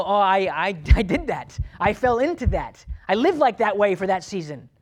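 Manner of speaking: loud, stammering mock self-accusation; self-condemning recollection. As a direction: act out dredging up your worst moments, loudly. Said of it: "bring that up into your mind and go".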